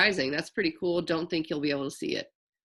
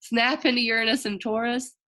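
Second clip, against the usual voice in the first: Slim Jim ad voice; 3 semitones higher, 3 dB louder than usual. Retold or imitated. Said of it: "sounding like".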